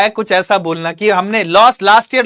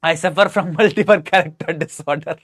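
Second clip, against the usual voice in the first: lower, slow mock voice; put-on character voice; 4 semitones lower, much slower than usual. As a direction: drawl it out as a silly character. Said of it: "मैंने यहां पर एक जगह voice change किया". (धीमी मज़ाकिया आवाज़)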